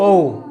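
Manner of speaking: ও held as a Bengali vowel. Shown as a demonstration. Teacher points to the Bengali vowel letter, rounded ও. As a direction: sound out ও long and rounded. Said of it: "এই বর্ণটাকে আমরা কি বলি?".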